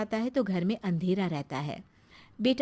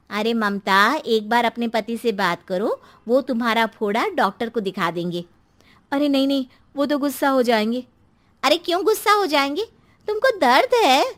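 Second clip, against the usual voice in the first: concerned friend; 3 semitones higher, 7 dB louder than usual. Acted. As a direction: press her to get help. सहेली ममता को समझाती है. (चिंतित सहेली का ज़ोर देकर समझाना)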